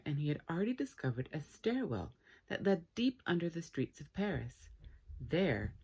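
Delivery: lively read-aloud storytelling voice; animated children's book reading; story narration. A narrator's reading. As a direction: read it like a bedtime story to kids.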